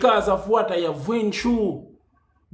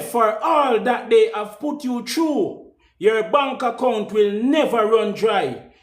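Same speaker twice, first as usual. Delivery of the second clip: preaching proclamation. Acted. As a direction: bless them like a preacher with full conviction. Judge's blessing quoted at length.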